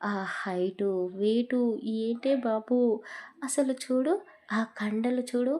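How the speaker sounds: a hint of a dreamy student raving about her teacher; lightly voiced gushing girl. Friend raving about the handsome teacher, lightly dreamy. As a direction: swoon over him, half teasing.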